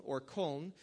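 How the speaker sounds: Köln said the German way, rounded ö. Shown as a demonstration. Pastor naming the city the German way, German pronunciation. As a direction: give Köln its German vowel. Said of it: "as they would say".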